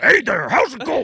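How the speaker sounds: loud, high hammed-up American greeting; cheesy American. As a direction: belt the cheesy American hello. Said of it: "went into that voice perfect".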